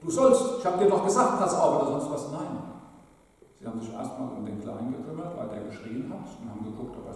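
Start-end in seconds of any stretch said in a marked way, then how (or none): 0.0-1.8 high, loud mock yell at the boy; father yelling. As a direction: play the angry father shouting a warning. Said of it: "Da hat der Vater nicht den Großen angeschrien".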